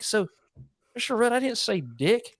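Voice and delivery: high-voiced imitation of a whistly little boy; Dalton. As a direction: play a protesting buck-toothed second-grader. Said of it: "so he talked like this".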